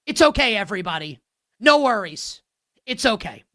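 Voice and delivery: mock soothing. Real, not acted. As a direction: pretend to calm fans while mocking. Sarcastic calming of fans.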